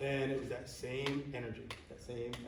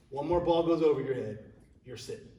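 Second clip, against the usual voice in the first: raised, firm coach's warning; stern warning; 6 dB louder than usual. Retold or imitated. Coach warning his player mid-game, loud and stern. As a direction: threaten to bench him, loud and firm.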